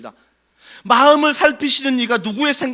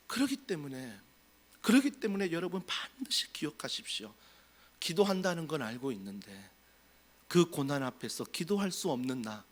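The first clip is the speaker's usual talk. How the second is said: much softer, lower, intimate sermon voice; hushed preaching; 3 semitones lower, 8 dB quieter than usual. Acted. Pastor hushes to the congregation about unspoken groaning, softly. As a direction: draw the congregation close with a hush.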